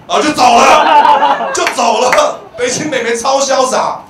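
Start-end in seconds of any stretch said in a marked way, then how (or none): none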